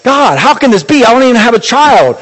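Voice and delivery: acted disbelief, a touch exasperated; doubting. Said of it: "Abraham doubted and said".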